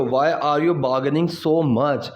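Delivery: slow model sentence. Shown as a demonstration. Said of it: "teacher models English slowly".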